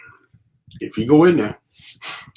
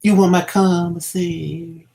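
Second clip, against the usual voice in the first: mock prison voice; 3 semitones higher, slower than usual. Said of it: "You gonna be talking just like this".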